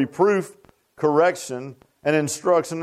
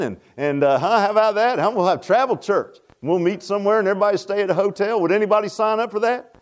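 higher-pitched mock recruiting spiel; mock sales pitch; 4 semitones higher than usual. Preacher mock-recruiting the congregation for travel church, playful pitch. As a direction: pitch it playfully, voice lifting on the questions.

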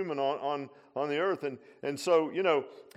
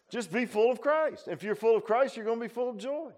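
high, raised exhorting voice; emphatic preaching; 8 semitones higher, 4 dB louder than usual. Real, not acted. Preacher urging congregation to be full of Christ, emphatic exhortation. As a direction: drive the answer home, pitched up.

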